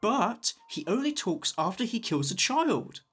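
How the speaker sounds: gravelly villain voice. Acted. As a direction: growl like a brute. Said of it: "his voice needs to sound like gravel".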